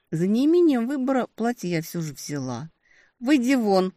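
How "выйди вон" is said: demanding. A narrator's reading. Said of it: "потребовала у демона".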